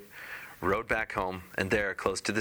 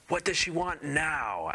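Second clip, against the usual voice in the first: high fish voice; 8 semitones higher, slower than usual. Acted. Fish asks again.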